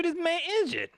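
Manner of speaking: high, plain announcement; blunt demo statement. Shown as a demonstration. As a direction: state it flatly. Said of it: "you should say".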